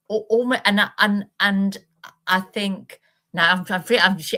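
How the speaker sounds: halting, tripping over words; stuttering. Real, not acted. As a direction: stumble through the start. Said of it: "I'm stuttering a bit".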